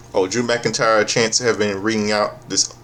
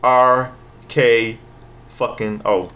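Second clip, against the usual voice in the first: catchphrase callout; much slower than usual. Retold or imitated. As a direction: belt out the wrestler's signature letters. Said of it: "invoke the three most dangerous letters".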